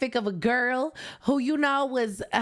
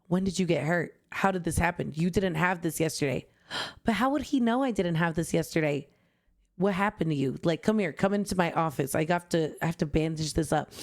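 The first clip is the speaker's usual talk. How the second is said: cold doctor voice; 6 semitones lower than usual. Pretend. Fanfic doctor voiced lower.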